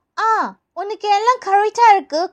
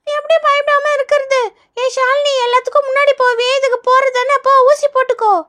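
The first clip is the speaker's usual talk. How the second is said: put-on slightly high child voice, urging a classmate on; nervous, needling schoolchild; 5 semitones higher than usual. Pupil pushes classmate to take the injection first, nervous needling. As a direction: nag like an anxious kid.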